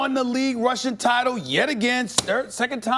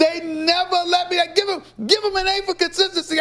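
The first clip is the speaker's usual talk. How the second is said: laughing; 4 semitones higher than usual. Real, not acted. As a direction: laugh while you gloat. Laughing mocking Cowboys.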